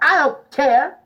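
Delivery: loud, sassy retort; imitated big-mouthed sass; mouthy backtalk. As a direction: mouth off like a defiant kid. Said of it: "my big old mouth was like".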